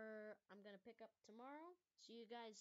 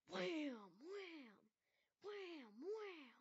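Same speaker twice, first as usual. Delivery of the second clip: explosion sounds; 6 semitones higher, 5 dB louder, much slower than usual. Acted. Bombs hitting the airfield.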